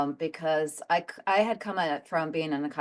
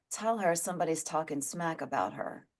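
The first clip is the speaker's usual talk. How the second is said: quiet relayed message; 7 dB quieter than usual. Retold or imitated. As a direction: pass it on quietly, as if it were murmured in your ear. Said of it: "like he was whispering in my ear".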